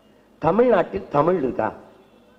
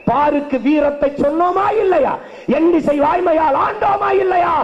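fiery poem recital; 8 semitones higher than usual. Acted. Orator rousing the rally with Bharathidasan's verse, fierce. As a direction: hurl each line at the crowd.

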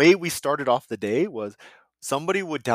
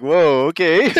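startled loud whoa; 5 semitones higher, 11 dB louder, slower than usual. Retold or imitated. Reacting to thirsty comment.

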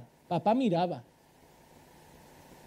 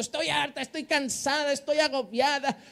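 higher, softer tired mother; mock fed-up mother; 3 semitones higher, 5 dB quieter than usual. Pastor mimicking exhausted mothers in the supermarket, mock weary. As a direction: sigh it out like a worn-out mum.

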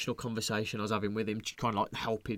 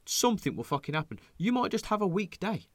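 lecturing friend; 2 semitones higher than usual. Retold or imitated. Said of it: "I went".

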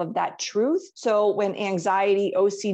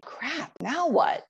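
mock dismay; 7 semitones higher, slower than usual. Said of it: "And then you're like".

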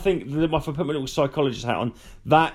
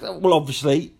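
mock smug. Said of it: "they say it like".

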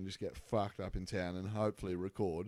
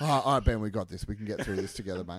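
loud hammed-up pep talk; mock coaching voice; 7 dB louder, faster than usual. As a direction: cheer him on, half joking. Mock coaching brother through it.

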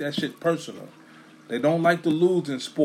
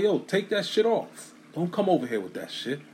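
higher, lightly acted shouting at the rival; mock angry fans; 6 semitones higher than usual. Eagles fans warning the rival-jersey guy, mock angry. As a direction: imitate fans telling him off, half-hearted. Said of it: "They were like".

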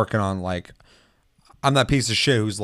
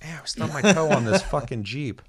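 mock hurt dinosaur; 4 semitones higher than usual. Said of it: "He's like".

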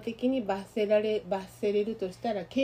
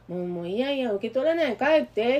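imitating the secretary's brush-off; 2 semitones higher, 4 dB louder than usual. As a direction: shoo them away, louder at the end. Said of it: "って言われて". (秘書を真似て、だんだん強く追い返す)

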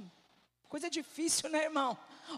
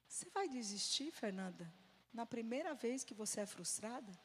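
a hint of a gentle, hushed challenge; God speaking, imitated; 2 semitones lower, 6 dB quieter than usual. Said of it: "Aí Deus falou assim pra mim".

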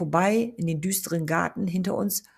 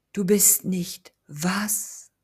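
slow, breathy, barely voiced disbelief; stunned whisper; 2 semitones higher, much slower than usual. Stunned stammering reply.

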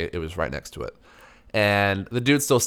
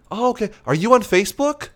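forced politeness; 11 semitones higher than usual. Retold or imitated. Fake polite small talk.

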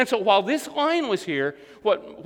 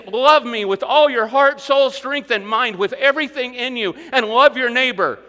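forceful preaching; 3 semitones higher, 5 dB louder than usual. Acted. Preacher voicing Jesus' command.

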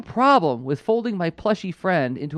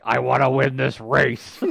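lightly voiced slow villain; a hint of a low cartoon villain; Miles Mayhem impression; 5 semitones lower, slower than usual. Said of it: "bad impersonations of Miles Mayhem".

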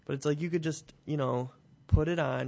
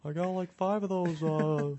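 higher hammed-up German accent; 5 semitones higher than usual. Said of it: "This is my German accent".

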